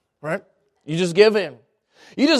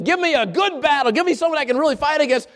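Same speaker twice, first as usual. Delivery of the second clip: mildly indignant demand; fast, lightly acted annoyance; upset; 3 semitones higher, faster than usual. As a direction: demand it like an insulted fighter. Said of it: "he's upset".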